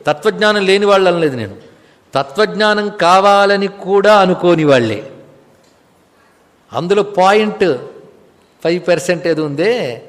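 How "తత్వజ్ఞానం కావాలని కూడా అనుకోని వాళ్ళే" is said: కావాలని కూడా drawn out slowly; emphatic repetition. Real, not acted. Teacher repeating his exact claim to listeners, slow stress on కావాలని కూడా.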